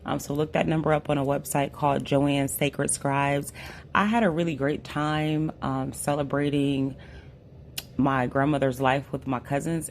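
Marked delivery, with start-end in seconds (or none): 3.9-9.9 hoarse voice. Real, not acted. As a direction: voice mostly gone, hoarse. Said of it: "I had lost my voice".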